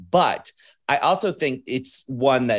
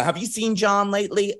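high, mimicked Baltimore voice; thick Baltimore impression, higher; Baltimore accent; 8 semitones higher than usual. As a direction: chat like a Baltimore gal, pitched up. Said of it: "Total Baltimore accent".

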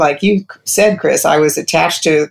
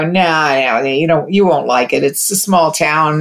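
doubting inner voice; 2 semitones lower than usual. Retold or imitated. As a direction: let the sceptical voice in your head talk you out of it. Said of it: "this other voice would come to me and go".

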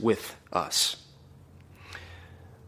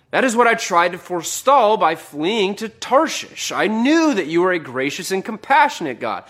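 raised, heated pleading at God; angry Jonah; 5 semitones higher than usual. Retold or imitated. Preacher voicing Jonah railing at God, heated. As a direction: voice Jonah's bitter complaint, pitched up.

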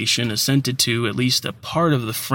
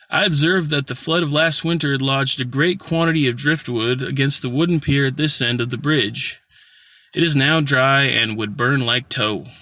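scout passing on war news, pitched up; lightly voiced horseman eager to share news; Confederate-seeming scout, higher voice; 3 semitones higher than usual. Rider tells the planter about the bridge, higher, lightly voiced.

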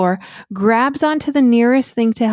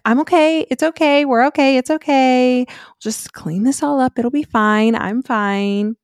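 higher, forced-soothing repeated okays; fake calm mom voice; 3 semitones higher than usual. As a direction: pretend everything is fine while panicking. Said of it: "I put on my fake calm mom voice".

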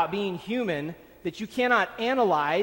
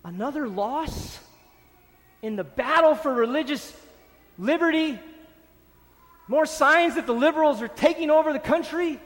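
mock alarm; 5 semitones higher than usual. Mimicking alarmed religious reaction.

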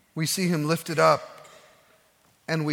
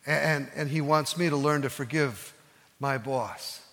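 quiet sincere confession; 4 semitones lower, 4 dB quieter than usual. Retold or imitated. Mike's quiet confession of faith.

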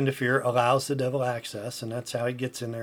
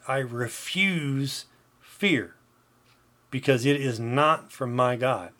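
emphatic declaration. Shown as a demonstration. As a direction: declare it firmly, stressing key phrases. Demonstrates declaring verse against fear.

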